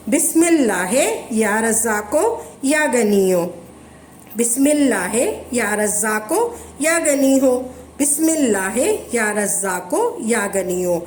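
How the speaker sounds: धीमी, एक लय में दोहराया गया विर्द; हर बार एक ही सुर में ज़िक्र पढ़ें; वज़ीफ़ा पढ़ने का तरीका. Shown as a demonstration. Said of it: "ऐसे पढ़ना है तीस मरतबा". (विर्द की तरह पढ़ना)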